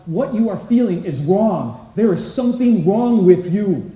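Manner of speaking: stern father message. Retold or imitated. Voicing father's hidden message.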